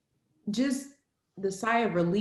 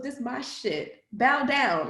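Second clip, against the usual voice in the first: cocky quote from a singer; 5 semitones higher, slower than usual. Retold or imitated. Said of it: "when she talks about".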